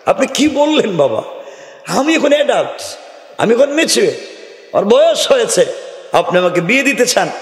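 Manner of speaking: high, indignant voice of a grown-up daughter; preacher voicing a daughter who scoffs at her father's match; defiant daughter. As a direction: play the brash girl brushing off her father.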